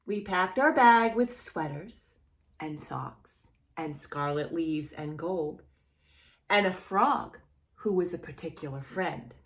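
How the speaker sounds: gentle storybook reading voice; reading to children. A narrator's reading. Teacher reading a picture book to a small child, gentle storybook voice.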